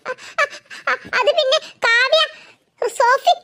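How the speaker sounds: frightened stuttering, high and halting; too scared to get the words out; scared stammer. Acted. Ammu stammering in fear to her sister. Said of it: "നീ എന്തിനാ ഇങ്ങനെ പേടിക്കുന്നത്?".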